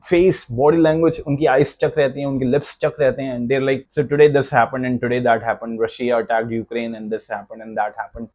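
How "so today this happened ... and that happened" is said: slow, flat and lower robotic reading; a hint of a dull newsreader; monotone news anchor. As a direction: read it like a lifeless anchor. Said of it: "This is how they speak".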